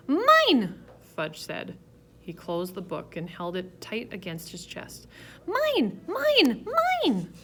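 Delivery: high, loud possessive yell; a little kid clinging to what's his; toddler shout. A narrator's reading. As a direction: toddler hugs book to his chest, yelling high and loud. Toddler clutching book.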